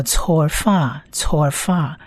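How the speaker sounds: "错发" as one blended Hebrew word; pronunciation demo. Shown as a demonstration. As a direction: model "错发" as tsor-fa, then repeat. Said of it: "合起来就念作错发".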